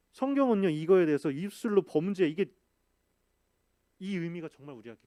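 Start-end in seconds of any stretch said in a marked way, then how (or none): 0.1-2.5 preaching emphasis. Real, not acted. Pastor stressing scripture to the congregation, loud. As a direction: proclaim it to the congregation. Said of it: "preaching emphasis".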